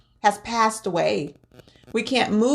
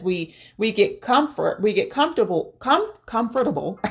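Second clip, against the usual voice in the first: stumbling over "comfortable", restarting "com-" before saying "comfortable" again; tongue-tied. Real, not acted. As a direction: trip over "comfortable", cut it off at "com-", then retry. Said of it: "Cannot say that word today".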